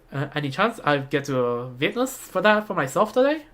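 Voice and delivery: attempted Russian accent, curious visitor; amateur Russian-accented character voice. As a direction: put on a Russian accent, politely inquiring. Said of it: "That's my best Russian accent".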